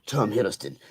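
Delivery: low mock British accent; hammed-up British villain with bad teeth; Tom Hiddleston. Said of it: "'cause I'm from Britain".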